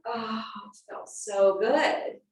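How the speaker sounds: slow, drawn-out blissful "oh"; blissful relief. Retold or imitated. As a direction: relive a wave of relief, unhurried. Reliving delight on entering shop.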